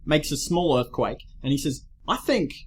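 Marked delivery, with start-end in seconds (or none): 2.1-2.5 lightly voiced earnest cartoon character; a careful, measured character impression; Kwame impression. Podcaster quoting the earthquake-maker's hopes for trees, lightly imitated character voice. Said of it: "That's exactly how it sounds".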